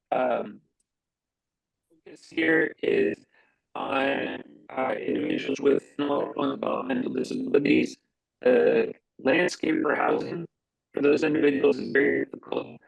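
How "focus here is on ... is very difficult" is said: inside a barrel. Real, not acted. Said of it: "talking into a barrel".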